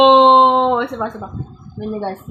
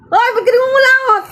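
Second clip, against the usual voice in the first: playful teasing; 9 semitones higher, 4 dB louder, faster than usual. Real, not acted. Parent teasing child picking nose.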